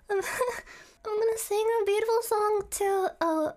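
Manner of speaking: giggling through words; laughing while talking. Real, not acted.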